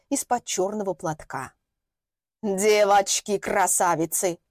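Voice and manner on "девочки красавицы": slow, croaked greeting like a witch; croaking crone. Acted. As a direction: caw it out like an old hag. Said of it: "прокаркала она".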